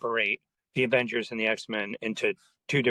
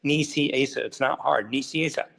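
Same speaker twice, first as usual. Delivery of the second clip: imitating mad Fabian; 2 semitones higher than usual. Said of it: "Fabian always got mad".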